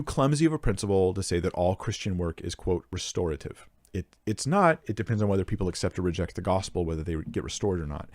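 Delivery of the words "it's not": ordinary talk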